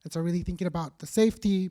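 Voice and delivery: hoarse, worn-out voice from talking; losing voice. Real, not acted. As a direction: voice giving out, a little rough. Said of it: "losing my voice now".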